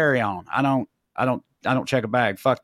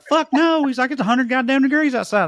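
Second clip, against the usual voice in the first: mock redneck outburst; 10 semitones higher, 3 dB louder than usual. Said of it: "And he was like".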